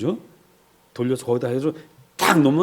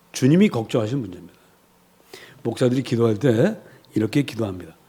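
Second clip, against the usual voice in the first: usual speaking voice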